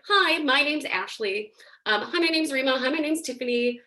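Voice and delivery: lifted, free and clear greeting voice; customer service voice. Shown as a demonstration. Teacher demonstrating a free, weightless sound, customer service voice. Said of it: "in your grandma voice or your customer service voice".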